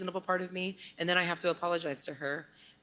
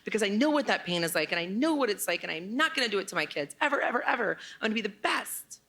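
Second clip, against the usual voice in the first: higher-pitched, mildly heated vow; retold angry vow; 5 semitones higher than usual. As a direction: recall a defiant promise with a touch of anger. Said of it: "this anger and this infuriation".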